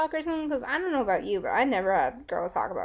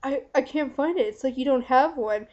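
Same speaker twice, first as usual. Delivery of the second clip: retold freak-out; 3 semitones higher, 4 dB louder than usual. Vlogger retelling a hookup's confusion, mock freak-out. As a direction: imitate a guy freaking out, lightly. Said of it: "freaking out on her".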